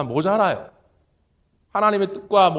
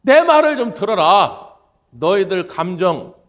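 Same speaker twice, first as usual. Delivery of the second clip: loud, drawn-out, much higher "아니다"; God's firm no; 3 semitones higher, 8 dB louder, slower than usual. Acted. God answering those giving up, loud and slow. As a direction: thunder the refusal, then slow command. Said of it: "이 하나님이 말씀하는 거예요".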